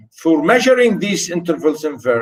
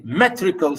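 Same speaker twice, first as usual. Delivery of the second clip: "metrical" with the stress on its opening "me"; stress on first syllable. Shown as a demonstration. Teacher pointing out metrical sounds, stressed first syllable. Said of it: "stress on m and l".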